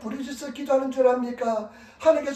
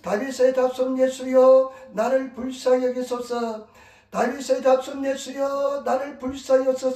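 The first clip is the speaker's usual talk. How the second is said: mild retold shout, vowels stretched; imitated cry for mercy. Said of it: "어떻게 소리 지르냐면".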